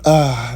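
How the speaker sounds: relaxed exhale after a coffee sip; satisfied "ahh" after a sip. Real, not acted. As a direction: let out a contented coffee "ahh". Pause after mentioning his coffee.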